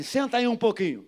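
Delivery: loud, high mock command; retold shout. Pastor ordering a hostile man to sit, retold shout. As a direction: call it out as a sharp order. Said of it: "Gritei também".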